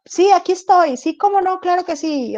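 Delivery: tono alto y servicial de empleada; empleada servicial fingida. Retold or imitated. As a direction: finge amabilidad de ventanilla. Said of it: "Allá Janet nos decía". (con voz aguda y complaciente de empleada)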